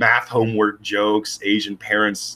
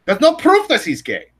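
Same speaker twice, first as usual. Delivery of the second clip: lightly put-on German accent, higher; a hint of a camp German accent; playful mock German accent; German Nazi accent; 8 semitones higher than usual. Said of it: "a stereotypical German Nazi accent".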